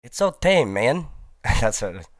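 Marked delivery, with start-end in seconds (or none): 0.0-1.1 put-on high excited kid voice; imitating the boy. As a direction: mimic a joyful twelve-year-old, pitched way up. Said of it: "He said".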